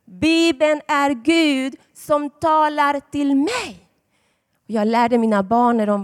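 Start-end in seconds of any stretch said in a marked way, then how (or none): 0.0-3.8 put-on slow, deliberate words for children to repeat; slow teaching recital. Shown as a demonstration. Preacher teaching children a slow, deliberate recital. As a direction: recite slowly so the kids can follow. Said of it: "Säg det med mig".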